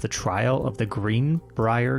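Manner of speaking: measured true-crime narration; story narration. A narrator's reading. Podcaster telling co-host of the trial, measured narration. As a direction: read it out as a polished account. Reads the written story aloud.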